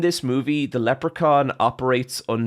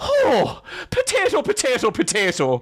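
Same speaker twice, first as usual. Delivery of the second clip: very high, drawn-out, sing-song put-on Irish accent; 11 semitones higher than usual. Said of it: "if you're not from Ireland, can't do it".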